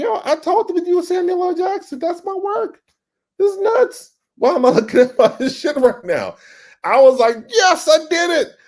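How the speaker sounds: reliving the thrill of seeing his ad; overjoyed. Retold or imitated. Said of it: "I'm like".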